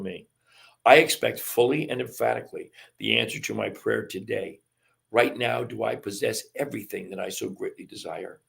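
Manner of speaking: measured read-aloud with firm phrase openings; affirmation reading. Acted. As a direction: declare each line, then let it settle. Reads an affirmation from textbook.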